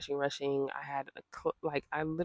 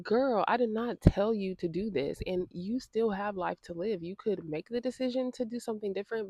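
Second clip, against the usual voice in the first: indignant retort; 4 semitones higher than usual. Retold or imitated. Retorting to the rude caller.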